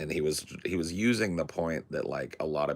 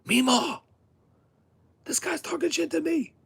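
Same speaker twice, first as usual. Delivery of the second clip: high, loud tattling cry; mock whining shout for Meemaw, much higher; whiny yell for Meemaw; 5 dB louder than usual. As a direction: call out to grandma like a crybaby. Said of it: "that's what he called her".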